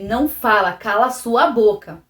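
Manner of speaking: a hint of an angry father; retold harsh order. Father silencing her, retold.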